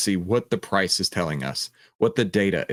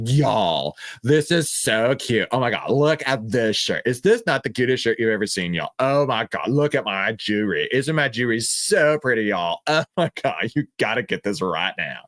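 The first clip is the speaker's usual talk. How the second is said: gushing Texas saleswoman on a livestream; bubbly, sing-song influencer gush; Valley Girl voice. Retold or imitated. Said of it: "they're like".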